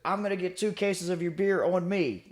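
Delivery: high-pitched impression of an eccentric old vet; imitated old veteran. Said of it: "one of those older guys".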